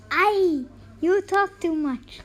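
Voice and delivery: wife chides her chatty husband; scolding wife. Acted.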